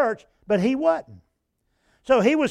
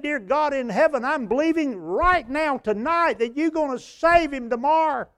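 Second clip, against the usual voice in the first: fervent prayer; 6 semitones higher than usual. Retold or imitated. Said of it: "He said".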